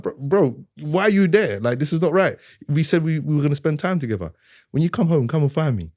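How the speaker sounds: loud, high exasperated scolding; frustrated dad. Retold or imitated. Father scolding his son for skipping family time, loud and high.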